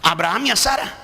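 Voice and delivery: fervent sermon delivery; rising pastor's exhortation; preaching. Real, not acted. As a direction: preach it to the congregation with conviction. Preaching to the congregation.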